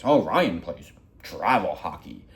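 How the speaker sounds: a slow, lightly put-on boast; mock bragging. Relatives bragging about Ryan at the pool, mild mock boast. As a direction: show off the son's travel hockey, smugly. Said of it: "bragging about this".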